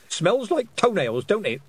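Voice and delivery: put-on cheerful old countrywoman asking a friend; old witch voice. A narrator's reading. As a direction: savour it like a gossiping old crone. Missus Ogg voiced, chatty.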